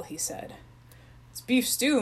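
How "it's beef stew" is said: mumbling through food; mouth full. Acted. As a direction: talk round a big mouthful. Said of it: "mumbled Chip, his mouth full".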